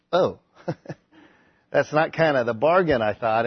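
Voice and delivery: a hesitant letdown with a small laugh; mildly sad. Acted. Rich young ruler declining the bargain, mildly sad. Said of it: "went away sad".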